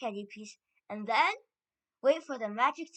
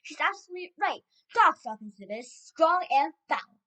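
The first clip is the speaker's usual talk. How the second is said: loud, emphatic agreement; excited cry; 5 semitones higher, 10 dB louder than usual. A narrator's reading. Another witch confirming the stink, crying out. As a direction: cry it out, drawing out the end. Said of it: "cried another voice".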